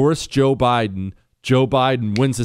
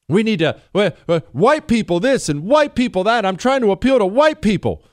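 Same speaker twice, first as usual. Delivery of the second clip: higher, louder mocking politician voice; mock pandering politician; 9 semitones higher, 3 dB louder than usual.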